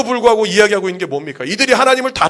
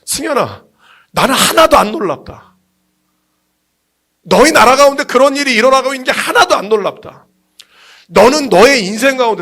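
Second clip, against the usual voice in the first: voicing God's emphatic reassurance; lightly voiced divine address; God addressing preacher; 2 semitones higher, 3 dB louder than usual. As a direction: speak for God with preacher's conviction. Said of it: "하나님 뭐라 그러시냐면".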